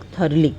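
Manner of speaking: thoroughly said as "THUR-lee"; correct pronunciation. Shown as a demonstration. Teacher corrects what people mispronounce, thoroughly as "THUR-lee". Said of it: "बहुत mispronounce करते हैं लोग".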